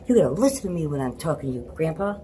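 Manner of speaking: put-on high, fast scolding child; a kid bossing grandpa loudly; child scolding shout. Daughter scolding grandpa after spraying him, high and loud.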